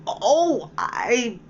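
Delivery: high, slow, pleading "Oh, I beg your pardon"; alarmed apology. A narrator's reading. Alice apologising again to the bristling mouse, high. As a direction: beg forgiveness, startled. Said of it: "cried Alice again".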